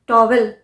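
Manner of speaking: टॉवेल in two parts, "tau-WEL"; common mispronunciation. Shown as a demonstration. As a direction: sound the w-e in टॉवेल. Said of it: "अभी तक हम यही बोलते हैं".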